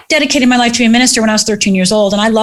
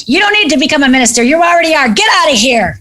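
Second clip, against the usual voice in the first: fast, higher, brushing it off; brisk dismissal; 4 semitones higher than usual. Retold or imitated. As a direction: wave her away, fast and bright. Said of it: "he was like".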